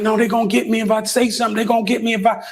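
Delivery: imitating a friend panicking about being caught; panicked rambling. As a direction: tumble it out fast like he's panicking. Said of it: "like, he's spazzing".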